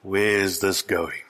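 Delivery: low, slow doubtful question; voicing a dubious listener; wary skepticism. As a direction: ask it slowly, like a wary congregation. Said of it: "looking at me in that tone of voice".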